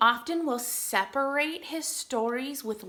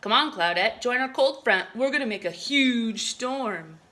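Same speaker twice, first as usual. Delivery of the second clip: loud confident invitation; rally her along; loud bossy cloud calling; big cloud call; 5 dB louder than usual. Acted.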